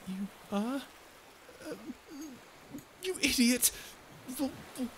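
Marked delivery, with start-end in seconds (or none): 1.7-3.7 flustered insult. Acted. Flustered at being answered. 4.4-4.9 higher and much louder, stammering; flustered bluster. Acted. Covering relief with bluster.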